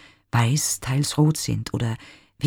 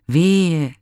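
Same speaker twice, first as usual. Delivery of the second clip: higher, louder lamenting wail; woeful cry; 5 semitones higher, 5 dB louder than usual. Acted. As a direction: wail out your grief. (klagender Ausruf „Wehe!“, höher und lauter)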